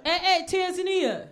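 high, hooting street holler; catcalling guys. Retold or imitated. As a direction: call out to a passing woman, mock-friendly. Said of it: "So they'll be like".

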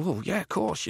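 high, bright-eyed yes; eager agreement. Retold or imitated. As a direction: agree with delight. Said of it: "And I go".

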